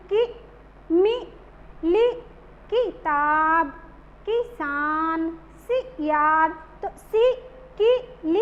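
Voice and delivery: कि, मी, ली, सी each cut short, the i quick; short i at the start of किताब, किसान, सियार; short i sound. Shown as a demonstration. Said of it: "ये छोटा sound आ रहा है". (छोटी इ को झट से, छोटा बोलकर)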